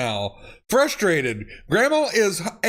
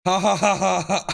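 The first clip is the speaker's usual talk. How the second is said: laughing; faster than usual. Real, not acted. Laughing at funny texts.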